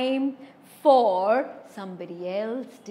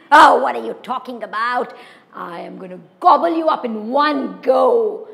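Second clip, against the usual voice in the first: loud troll; 6 dB louder than usual. Acted. Troll boasts.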